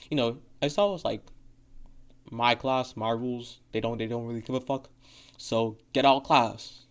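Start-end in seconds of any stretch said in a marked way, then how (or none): 2.3-6.8 deadpan teacher, no ups and downs; monotone voice. Retold or imitated. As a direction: drone it out, bored and even. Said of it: "in, like, the most monotone voice ever".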